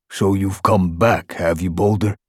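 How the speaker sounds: a guard mocking a cat who left; sardonic recognition. A narrator's reading. Bone recognizes returning Boulder.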